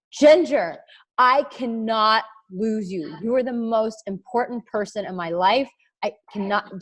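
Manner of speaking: mildly desperate retold plea; tearful plea. Retelling a crying call to a best friend, pleading. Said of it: "crying my eyes out".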